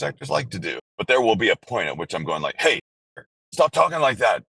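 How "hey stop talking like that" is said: higher, louder mock begging; exasperated plea. Voice actor begging colleagues to drop their Scottish accents, mock exasperated. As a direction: plead in comic exasperation.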